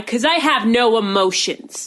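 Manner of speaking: slow, measured retelling of a deadpan line; matter-of-fact. Retold or imitated. Brother-in-law answers "are you angry", matter-of-fact. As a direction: imitate him stating it calmly and slowly. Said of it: "And Steven's like".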